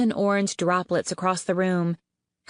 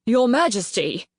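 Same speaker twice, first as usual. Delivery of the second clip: a raised, higher alarmed call; shouted; 4 semitones higher, 4 dB louder than usual. Acted. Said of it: "Mastermind shouted".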